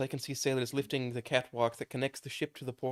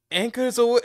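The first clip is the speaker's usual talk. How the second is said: high shouted order; loud yell; 10 semitones higher, 10 dB louder than usual. Acted. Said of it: "Uh, fuck, let me".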